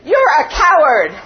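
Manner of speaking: loud shout thrown back from far off; distant echo. A narrator's reading. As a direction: sound like the mountain answering. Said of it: "And the voice answered".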